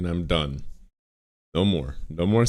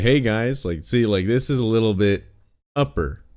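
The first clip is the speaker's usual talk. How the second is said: raised stream voice; 2 semitones higher than usual. Shown as a demonstration. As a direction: pop the voice up like greeting viewers. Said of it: "I raise my voice a little bit".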